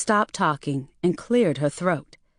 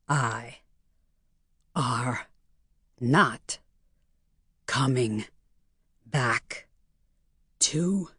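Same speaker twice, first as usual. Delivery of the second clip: each word slow, lower and softer, hoarse; 6 semitones lower, 5 dB quieter, slower than usual. A narrator's reading. Mel repeats to mother-in-law, word by word. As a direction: spell it out like to an idiot. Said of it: "talking more slowly and pronouncing each word".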